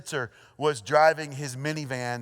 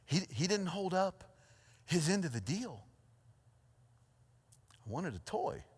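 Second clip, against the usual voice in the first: bitter Naomi; 3 semitones higher, 7 dB quieter than usual. Retold or imitated. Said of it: "She's like".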